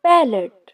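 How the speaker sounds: पैलेट set apart clearly as "PAL-et"; careful pronunciation. Shown as a demonstration. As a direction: show पैलेट with both syllables distinct. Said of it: "लफ्ज को पैलेट बोलना है". (पैलेट के दोनों हिस्से साफ़, "पै-लेट")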